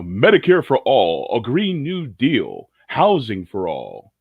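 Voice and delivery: slow, measured political ad read; deliberate campaign-slogan delivery. Shown as a demonstration. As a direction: announce each policy like a campaign commercial. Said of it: "I can do the campaign voice".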